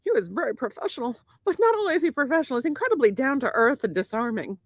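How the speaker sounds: put-on Irish lilt for a formal speech; turning Irish. Composing herself to praise banker to James, turning Irish. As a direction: slip into an Irish accent as if giving a testimonial. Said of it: "Why do you turn Irish?".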